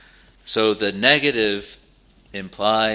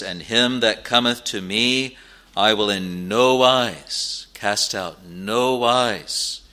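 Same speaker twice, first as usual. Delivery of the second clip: NO WISE drawn out slowly and firmly; slow emphatic quote, leaning on "no wise"; emphatic stress; slower than usual. Retold or imitated. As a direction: underline "no wise" with long, weighty vowels. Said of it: "Jesus puts this very emphatic, he underlines it, he stresses it".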